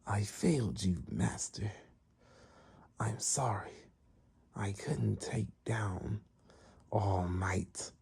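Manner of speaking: hushed, breathy near-whisper; apologetic servant. Retold or imitated. Beaten servant apologizing to master.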